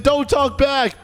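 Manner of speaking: high, slow scolding; yelling teacher. Retold or imitated. Strict teacher silencing student who explains, mock yelling. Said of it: "I'm still getting yelled at".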